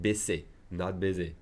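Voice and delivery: Baisser with a hard S sound, baiser with a Z sound; teacher contrasts Baisser and baiser; S versus Z. Shown as a demonstration. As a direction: make the contrast between Baisser and baiser clear. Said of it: "pronounce the double S with an S sound".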